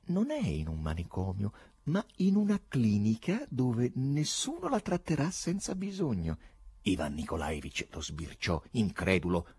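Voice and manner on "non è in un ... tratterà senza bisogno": calm doctor, pitch lifting as it goes on; composed, soothing explanation. A narrator's reading. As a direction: reassure the patient evenly, without pushing. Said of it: "disse con calma il dottore".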